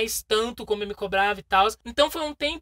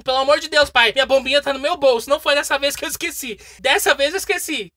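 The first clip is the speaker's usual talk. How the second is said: exasperated plea; 5 dB louder than usual. Retold or imitated. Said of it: "E eu tava tipo".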